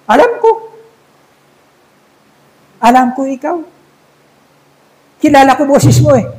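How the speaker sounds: a hint of a broken-Tagalog Chinese shopkeeper. Chinese shop owner telling the robber he knew his voice, mild accent. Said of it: "Sabi ng inchik".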